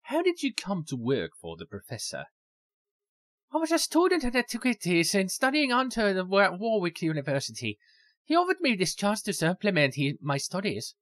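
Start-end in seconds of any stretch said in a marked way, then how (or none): 3.5-10.9 put-on a lilting, overdone Irish voice for the young woman; student answering in a stereotypical Irish accent. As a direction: play her with a hammed-up Irish brogue. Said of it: "I'm sorry if my accent sucks".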